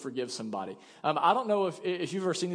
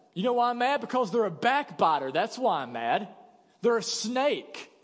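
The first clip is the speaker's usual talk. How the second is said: indignant accusation; 4 semitones higher than usual. Retold or imitated. A wronged person denouncing the gossip, indignant. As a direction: spit out the blame. Acted indignant reply about backbiter.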